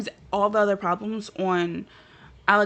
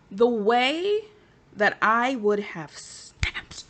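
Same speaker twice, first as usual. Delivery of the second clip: whispered threat; much slower than usual. Real, not acted. Trails into whisper imagining snapping.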